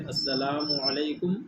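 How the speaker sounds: slow model السلام علیکم, "as-salaa-mu alaikum"; pesh on the meem. Shown as a demonstration. Teacher modelling the greeting for pupils to repeat, slow السلام علیکم with "-mu" sounded. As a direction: draw out السلام علیکم slowly with a clear "mu" before علیکم. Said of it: "میم پہ پیش ہے".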